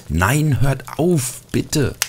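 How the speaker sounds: high, loud pleading cry; frightened cry. A narrator's reading. Little angel crying out to the fighting ornaments, frightened. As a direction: beg them to stop, alarmed. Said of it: "rief der Engel".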